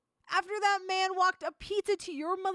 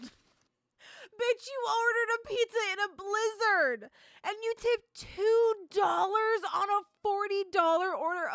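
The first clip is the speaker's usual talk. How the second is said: cracking, pitched-up indignation; outraged rant; 3 semitones higher than usual. Real, not acted. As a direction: scold them, voice breaking with outrage. Ranting at the customer.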